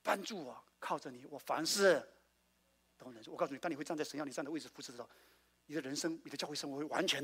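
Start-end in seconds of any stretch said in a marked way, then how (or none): 0.0-3.3 humble prayer. Retold or imitated. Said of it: "你说".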